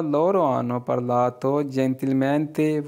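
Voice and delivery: very slow, each Italian word laid out clearly; slow model reading. Shown as a demonstration. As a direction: read it slowly for learners to copy. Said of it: "teacher models Italian sentence". (धीरे-धीरे साफ़ उच्चारण)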